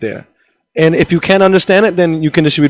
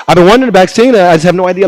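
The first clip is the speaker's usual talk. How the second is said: higher, louder nonsense talk; gibberish; 4 semitones higher, 3 dB louder, faster than usual. Retold or imitated. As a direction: babble fake words with a raised voice. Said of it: "I'll speak to them in gibberish".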